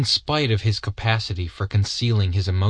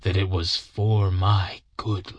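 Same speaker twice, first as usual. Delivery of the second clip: whispered confession; 4 semitones lower, slower than usual. Acted. Wood confessing to Holmes and Watson, hushed whisper. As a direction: breathe it out like a secret shame. Old man's rueful confession.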